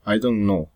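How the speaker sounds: "I don't know." falling on "know"; plain statement closing on a fall at "know"; falling statement before a tag. Shown as a demonstration. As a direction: let "know" drop. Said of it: "Falling or rising intonation".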